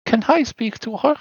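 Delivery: put-on high small girl's question; high childlike ghost voice; little girl Rose. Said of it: "Rose, and she says".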